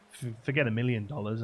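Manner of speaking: loud, emphatic dismissal; greedy demand. Acted. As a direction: top the last man's wish loudly. Second man tops the first wish.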